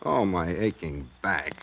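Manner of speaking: sag under the bad news; weary groan.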